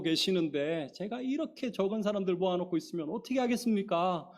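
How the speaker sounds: mock exasperated plea to God; complaining prayer. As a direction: retell a whiny, fed-up prayer. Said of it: "막 짜증을 부리고 하곤 했었습니다".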